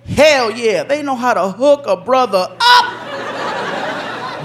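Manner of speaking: hammed-up joy over the card; mock thrilled. Neighbor reading the welcome card, hammed-up delight.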